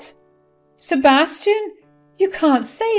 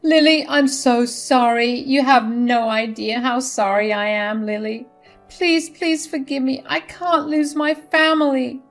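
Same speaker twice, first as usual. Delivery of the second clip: higher, louder tearful pleading; tearful apology; 7 semitones higher, 4 dB louder than usual. Acted. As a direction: apologize through tears. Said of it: "She tearfully said".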